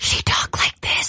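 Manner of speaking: mock whispering. Describing a coworker who talked this way when sick: imitating coworker's sick whisper. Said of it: "She just whispered".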